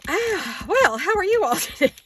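high, loud greeting through laughs; giggling. Real, not acted. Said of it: "she's got a case of the giggles".

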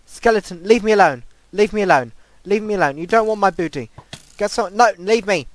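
high, loud frantic begging; panicked pleading. Real, not acted. Attacked by skeleton.

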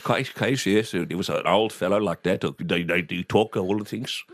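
lightly imitated Dutch accent. Imitating dad's Dutch-born client, Dutch accent. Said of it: "And he talked like that".

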